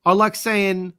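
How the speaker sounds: hammed-up British accent; badly faked English accent. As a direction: relish a corny British accent. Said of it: "favorite thing to say with my British accent".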